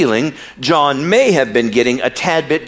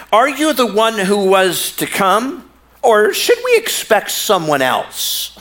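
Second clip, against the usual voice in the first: sassy; 6 semitones higher, slower than usual. Retold or imitated. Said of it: "This is so sassy".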